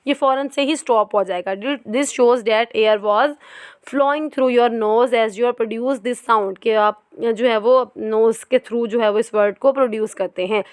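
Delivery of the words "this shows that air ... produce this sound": very slow, careful reading from the book; textbook reading. Acted. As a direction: read each word out deliberately. Reads textbook aloud.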